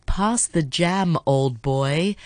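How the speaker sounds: put-on "Pass the jam, old boy" drawn out slowly, each word separate; slow careful demo. Shown as a demonstration. Host slowly demonstrating the English phrase to listeners, slow and deliberate. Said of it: "if you say it really fast".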